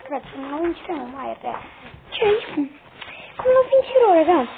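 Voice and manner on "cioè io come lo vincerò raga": high loud despairing shout; exasperated shout. Real, not acted. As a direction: cry out in frustration. Despairing at losing the game. (grido esasperato)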